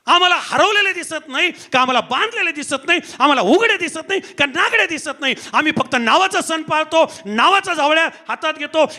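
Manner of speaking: insistent, ringing sermon delivery; forceful preaching. Acted. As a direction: drive each accusation home in parallel phrases.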